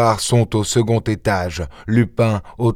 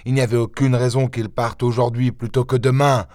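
raised, bewildered inspector, pourquoi slowed; baffled Ganimard; 6 semitones higher, faster than usual. Acted. Ganimard protests to his chief, baffled and raised. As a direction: wrestle with it, why now.

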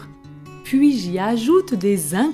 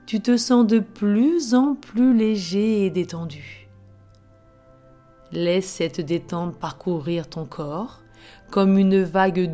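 right in your ear. Acted. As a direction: breathe them gently into calm. Leads a relaxation before story. (voix douce de relaxation guidée)

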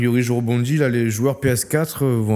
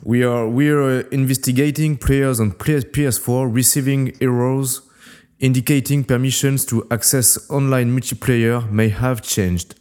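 reading a tweet aloud in a put-on English accent; French speaker doing his best English accent on a tweet. Shown as a demonstration. Reading Bungie's tweet to his co-host in an English accent. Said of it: "tu veux entendre mon accent anglais?".

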